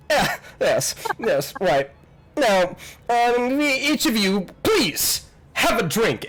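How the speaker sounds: high, fanciful host's greeting; welcoming host, grand. Acted. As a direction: welcome guests with fussy flourish. Voices the party's host.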